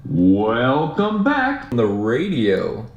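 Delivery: slow radio-style intercom voice; flat echoey pa page. Shown as a demonstration. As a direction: read it like a PA page. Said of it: "there's an over the intercom podcast voice".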